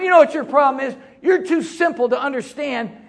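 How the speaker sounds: hammed-up arrogant rant, rising until he yells; mock rant building to a shout. Retold rant at his wife.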